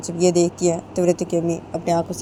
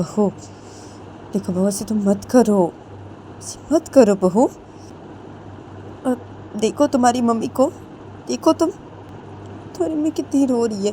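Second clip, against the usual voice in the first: higher insistent mother-in-law; urging mother-in-law; 5 semitones higher than usual. Acted. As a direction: push her to go home. Mother-in-law urges daughter-in-law. (बहू को समझाती सास, ऊँची आवाज़ में ज़ोर देकर)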